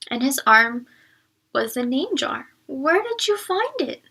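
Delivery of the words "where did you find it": breathless. A narrator's reading. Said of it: "asked Yune breathlessly".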